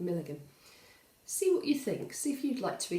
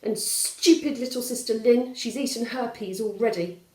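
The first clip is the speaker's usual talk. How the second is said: sulky grumble; 3 semitones higher, 6 dB louder than usual. Acted. Valdemar sulking on.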